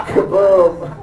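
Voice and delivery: laughing mock explosion; a quick cartoon blast; kaboom sound effect. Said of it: "I just do the kaboom".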